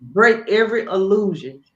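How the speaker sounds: loud, emphatic prayer command; fervent prayer. Acted. Speaker models a prayer for someone in despair, fervent. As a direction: pray it with force, word by word.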